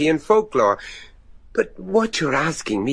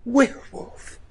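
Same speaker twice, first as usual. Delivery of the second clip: incredulous; 10 semitones higher than usual. Acted. Incredulous echo of werewolf claim.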